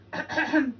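loud preparatory throat clear. A narrator's reading. Lion preparing to roar, clearing his throat. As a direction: clear the throat before roaring. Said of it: "Lion cleared his throat".

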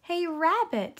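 high, loud sing-out through a door; calling from outside. A narrator's reading. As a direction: call out brightly to someone indoors. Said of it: "someone called outside".

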